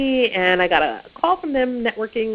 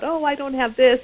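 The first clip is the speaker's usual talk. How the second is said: higher-pitched, lightly put-on whine; mock whining; 5 semitones higher than usual. Job seeker complaining to their adviser, mock whining. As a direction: imitate a mild complaining whine. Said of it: "maybe you're whining about".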